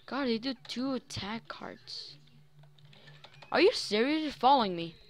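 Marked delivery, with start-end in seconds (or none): 3.5-5.0 loud, high disbelief; surprised. Real, not acted. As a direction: shout in shocked disbelief. Zombie chasing him.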